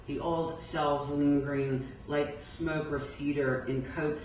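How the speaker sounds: measured poem recital with falling line ends; poetry reading. Acted. Poet reading Phantom Pain to an audience, measured recital. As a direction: read each line deliberately, letting its end settle. Reads own poem aloud.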